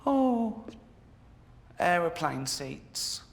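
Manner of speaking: mock moaning about plane seats; lightly voiced whiny moan; whining complaint. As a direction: whine like a put-upon passenger. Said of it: "Always complain".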